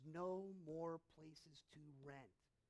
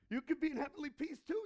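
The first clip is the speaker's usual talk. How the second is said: 1 emphatic repeat; 9 semitones higher, 12 dB louder, faster than usual. Real, not acted. Repeated louder, higher, faster.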